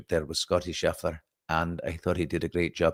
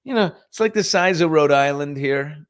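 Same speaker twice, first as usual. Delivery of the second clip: much higher, rushed mock panic; frantic high inner monologue; panicked inner voice; 5 semitones higher than usual. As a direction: fret as the sweat spreads. Inner panic over sweat.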